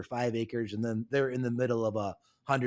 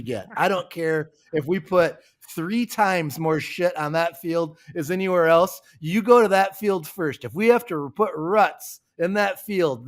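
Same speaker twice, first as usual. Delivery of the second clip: louder, building determined order; stubborn grandpa; 3 semitones higher, 5 dB louder than usual. Retold or imitated. Grandpa orders his son to spread manure there, building louder and stubborn. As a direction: lay down the law, getting louder.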